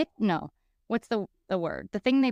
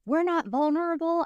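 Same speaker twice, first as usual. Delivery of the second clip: mock indignant; 8 semitones higher than usual. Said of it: "I went down the group".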